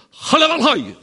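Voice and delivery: high, loud barked exclamation; foreign outburst. Retold or imitated. President snaps at his aide to shut up, loud outburst. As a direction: bark it like an impatient president. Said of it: "Och tittar han på den då".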